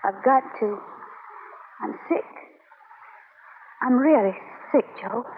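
soft and low, worn out; quiet defeated. Acted. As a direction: say it with nothing left. Taffy leaving, defeated and low.

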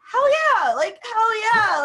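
loud, high "hell yeah" reply; hyped-up quoted answer; emphatic enthusiasm. Retold or imitated. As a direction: retell it as a big excited yes, stretching the second one. Enthusiastic answer acted to curious people.

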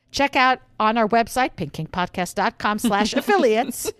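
upbeat announcer plug, lightly done; game show voice. Acted. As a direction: sell it like a game show host. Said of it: "my game show voice".

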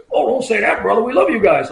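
high-pitched wrestler impression; hearty protest from a big wrestling personality; Hulk Hogan. Celebrity reassuring a humble trooper, imitated wrestler heartiness. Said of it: "he talks like he does".

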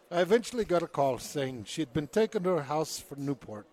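put-on British accent slipping into Irish; drifting Irish accent. Host reads the son's account despite teasing, drifting Irish accent. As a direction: read it with a wandering Irish lilt. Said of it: "You're Irish now".

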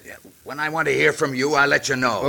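curt put-down from the sheriff; brusque tone. Acted. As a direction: shut him down with authority. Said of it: "that tone of voice to Pancho".

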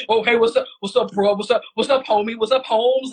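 lightly deepened mock casual greeting; a hint of forced bass, playing it cool; mild mock homie greeting; put-on bass voice. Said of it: "put a little bit of bass in their voice".

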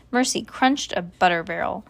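plain reading voice

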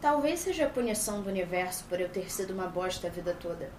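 mildly upset character. Acted. Dubber voicing the annoyed character's line, understated. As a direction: mutter it like a sulking teen, lightly. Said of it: "ela tava, né, boladíssima".

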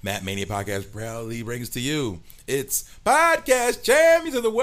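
announcer's big build to a shout; ringmaster. Acted. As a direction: ringmaster intro, rising to a yell. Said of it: "Ladies and gentlemen, boys and girls".

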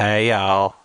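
lightly put-on Southern-style accent; put-on y'all accent. Guest testing the modulator, put-on accent. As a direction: greet them in a folksy accent. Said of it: "I'm doing the accent".

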